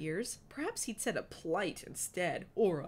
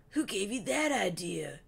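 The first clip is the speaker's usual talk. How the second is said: shocked; 3 semitones higher, 5 dB louder than usual. A narrator's reading. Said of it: "He gave her a shocked look".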